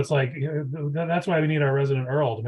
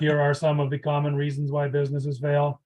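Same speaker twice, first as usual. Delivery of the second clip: flat robotic reading voice. Pretend. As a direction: read it like a computer talking. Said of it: "Should I read it in a robot voice?".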